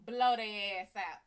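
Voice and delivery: slow, loud command to blow it out; band director yelling. Retold or imitated. Band director to player, slow loud yell. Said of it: "And the band director said".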